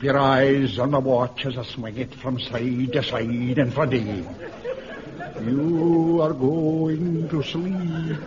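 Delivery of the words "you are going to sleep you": slow, drawn-out hypnotist voice; hypnotic lull. Acted. Jock lulling the clerk to sleep, slow. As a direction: draw out each word to lull him to sleep. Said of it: "hypnotist lulling voice".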